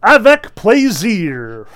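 slow, loud, high flourish; grand showman. A narrator's reading. Fagot agreeing to the audience's request, grand flourish. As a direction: draw it out with theatrical relish.

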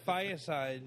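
"Fireside" said as fiyah-side; ethnic-sounding Fireside. Real, not acted. Friend telling others about lunch, "Fireside" as fiyah-side. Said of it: "why are you saying Fireside".

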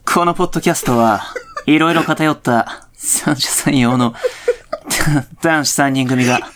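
would-be handsome-voiced podcaster. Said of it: "このポッドキャストやってみる？".

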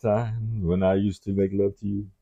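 seductive crooner talk, lightly voiced; like a soul singer. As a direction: slip into a love-man monologue. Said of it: "yeah, Barry White".

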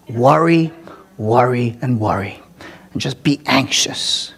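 sarcastic low aside to the congregation; mock sarcastic advice. Mock advice to keep worrying.

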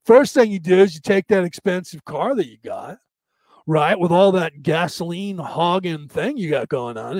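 lightly voiced surfer bro; surfer dude. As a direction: lecture like a California surfer dude. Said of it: "the surfer dude".

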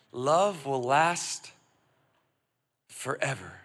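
slow, savored repeat. Real, not acted. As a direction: stretch each word out slowly. Repeats the verse slowly.

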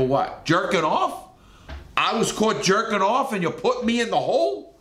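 high, rising disbelief; incredulous. Retold or imitated. Inmate told why he's in the hole, retold incredulous reaction. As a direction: re-enact an outraged double-take, ending on a rising question. Acts out disbelief at guard's reason.

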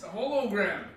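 "hologram" said as "ho-lo-gram"; mispronounced "hologram". Retold or imitated. Friend echoes the hiker's word, imitated mispronunciation. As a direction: echo the hiker's long-o "hologram". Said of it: "he pronounced it".

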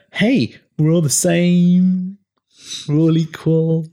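high, slow, sing-song mocking voice; naive mock voice. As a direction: mimic a naive know-it-all. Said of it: "people that may think".

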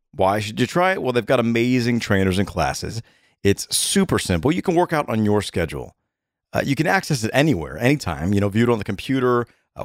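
upbeat, conversational sponsor read; steady promo read, key offers punched; podcast ad read. Acted. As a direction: sell it like a friendly host endorsement. Reads a sponsor ad.

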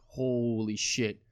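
slow, stunned holy shit. Retold or imitated. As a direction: let it sink in slowly, awestruck. Realizing he might be a dad.

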